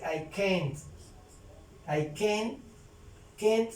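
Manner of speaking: "can't" as one syllable with the final T heard; sounded final T. Shown as a demonstration. Teacher shows learners the contraction, "can't" ending in a sounded T. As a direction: finish "can't" on an audible T. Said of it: "suena la T al final".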